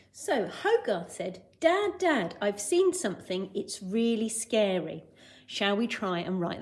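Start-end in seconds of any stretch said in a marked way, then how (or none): 1.6-5.0 lightly voiced alarmed boy; mild mock shout. Teacher voicing Hogarth's news to Dad, mild mock shout. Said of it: "because he's shouting it".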